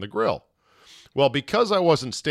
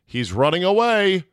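1 panicked exclaim; 8 semitones higher, 6 dB louder than usual. Real, not acted. Panicked teaser line about the dog.

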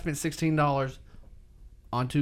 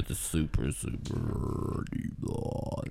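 lower, near-whispered joke deep voice; mock deep voice; 8 semitones lower, 8 dB quieter, much slower than usual. Friends tease him about staying serious, so he tries a mock deep voice. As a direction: drop into a pretend deep serious voice. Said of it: "It's my deep voice".

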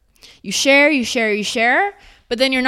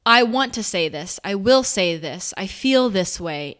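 slow, steady and firm; with power. Shown as a demonstration. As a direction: own every word. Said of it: "It's with power".

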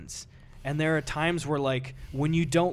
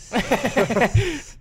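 creeper sound; 10 semitones higher, 8 dB louder than usual. Shown as a demonstration. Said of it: "I can do a creeper".

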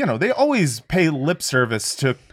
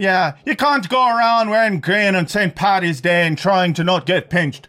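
higher Irish scolding; mock Irish accent; 3 semitones higher than usual. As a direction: warn them in caricature Irish, amused. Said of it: "so to do the accent".

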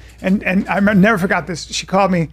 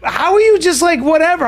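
high, incredulous mimicked question; imitating blown away; 8 semitones higher than usual. Sister questioning her brother's calm, retold as blown away. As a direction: play a stunned sister, voice pitched way up. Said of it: "she was so blown away".

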